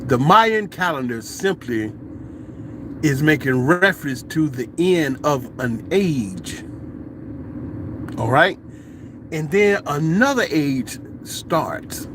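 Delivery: measured, patient explanation with long pauses; lightly voiced elder. Old elder correcting the visitors, calm measured explanation. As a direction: lightly imitate an elder setting people straight. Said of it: "and the old elders, like".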